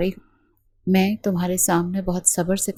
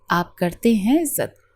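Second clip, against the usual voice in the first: slow, mocking question; a slow taunt thrown back at him; sarcastic jab; slower than usual. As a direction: drag it out with scorn. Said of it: "وہ ہنس پڑی".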